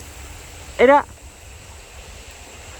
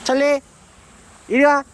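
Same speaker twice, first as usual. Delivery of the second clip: high calling, coaxing the dog; talking to a dog; 10 semitones higher, 4 dB louder than usual. Real, not acted. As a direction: coax the dog over, high.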